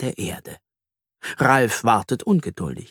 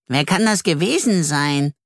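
wondering question, pitched up; puzzled; 5 semitones higher than usual. Acted. Ralf puzzles over the culprit, wondering. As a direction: puzzle over who did it. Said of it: "fragt Ralf rätselnd".

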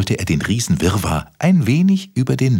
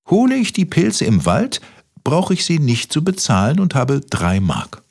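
Kaspar voice; 6 semitones higher than usual. Acted. Kaspar counting to himself.

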